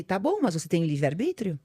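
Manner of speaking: lightly voiced God answering her; God speaking. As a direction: explain it like a loving father. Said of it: "É como se ele me falasse".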